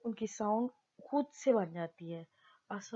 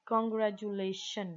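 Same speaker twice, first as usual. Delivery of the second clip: congratulation slowly, in measured syllables; teacher's slow, segmented congratulation; 3 dB louder, much slower than usual. Shown as a demonstration. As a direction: spell out congratulation beat by beat, con-gra-tu-la-tion. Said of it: "चार जगह पे रुकना पड़ा है".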